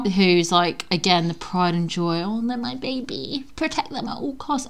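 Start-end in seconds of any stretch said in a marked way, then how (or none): 2.2-4.7 soft, higher voice of a fussing parent; mock doting parent. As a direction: coo lightly like an overprotective mum. Mimics doting parents of the baby.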